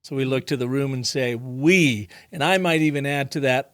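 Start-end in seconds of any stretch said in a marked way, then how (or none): 1.4-2.1 "We" long and emphatic; stress on WE. Shown as a demonstration. Client addressing the room, stressing "We". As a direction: hold and press the word "We". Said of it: "put it on we".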